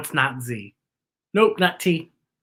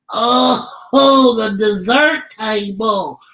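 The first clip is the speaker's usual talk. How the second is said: Bookie puppet voice; 3 semitones higher, 4 dB louder, slower than usual. Acted.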